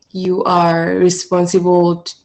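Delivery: normal talking voice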